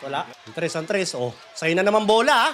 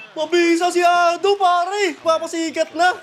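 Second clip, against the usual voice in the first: excited hype; 4 semitones higher than usual. Real, not acted. Gamer to his stream, hyping the hot scorer: excited cheer.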